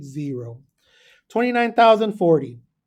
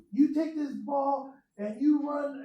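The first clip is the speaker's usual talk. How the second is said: higher, slow mock coach bark; coach yelling at player; 7 semitones higher, 7 dB quieter, slower than usual. Teacher retelling movie, hammed-up coach voice. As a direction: play the gruff football coach.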